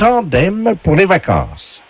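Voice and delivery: slow, high prize announcement; game show announcer. Acted. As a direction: present the item like a TV game host. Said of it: "la voix du jeu".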